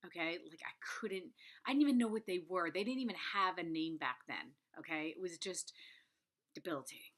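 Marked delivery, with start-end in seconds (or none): 5.1-7.1 whispered. Real, not acted. Whispers the hard word.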